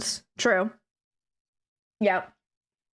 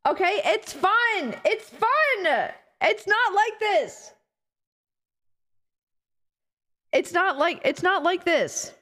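high, slow put-on voice of a cutesy meme self; mock squeaky version of herself; 7 semitones higher, slower than usual. Streamer parodies how chat's meme portrays her, in a high cutesy voice. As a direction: play the silly version chat imagines of you. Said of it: "I don't sound like this. This is not me".

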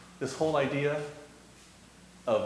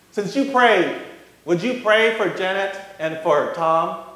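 a bit higher and louder woman asking; lightly voiced old lady; 7 semitones higher, 8 dB louder than usual. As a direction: ask like the pushy seatmate, lightly. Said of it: "she says".

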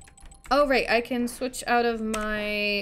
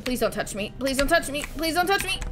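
rising panicky plea; 2 semitones higher, faster than usual. Real, not acted. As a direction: plead faster than you can dodge. Dodging a game boss, repeated plea.

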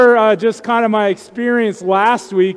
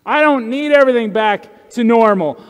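mock proud denial; 3 semitones higher than usual. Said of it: "I want to say".

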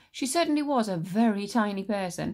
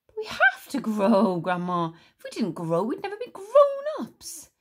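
slow, louder, rising to a cry; pleading boy; 4 semitones higher, 6 dB louder than usual. Acted. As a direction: argue with grandma near tears. George argues, voice breaking.

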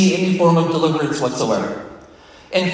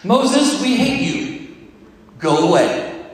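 outraged crowd; 8 semitones higher, slower than usual. Retold or imitated. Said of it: "the people were like".

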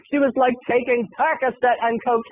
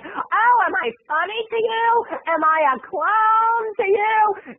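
high, slow mock Joe Pesci threat; Goodfellas menace as diva; 10 semitones higher, slower than usual. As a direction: play the "funny to you" bit as a diva. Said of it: "reenacting Goodfellas".

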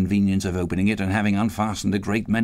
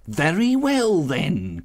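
crying out; 8 semitones higher, much slower than usual. A narrator's reading. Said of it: "cried the woman".

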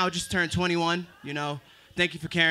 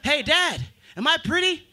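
put-on high girlish voice; daughter asking; 9 semitones higher, 4 dB louder than usual. Imagined daughter asking her dad, high girlish voice. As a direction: ask hopefully like a little girl. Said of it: "lie to her face every single day".

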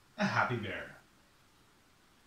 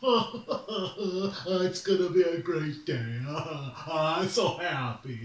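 bubbly, laughing sunny-morning bear; cheery bear voice; much slower than usual. Acted. Bear greeting the morning, giddy and laughing. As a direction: chirp it like nothing could go wrong.

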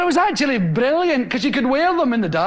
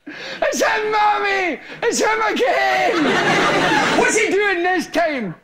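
put-on whiny child's call, higher; child tattling; 5 semitones higher than usual. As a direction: tell on your brother again.

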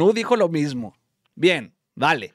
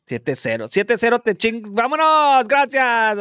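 comic annoyance; 5 semitones higher than usual. Pretend. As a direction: work up into an indignant dismissal. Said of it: "Me hace enojar aquí".

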